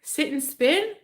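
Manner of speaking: angry guy. Retold or imitated. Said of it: "he's like".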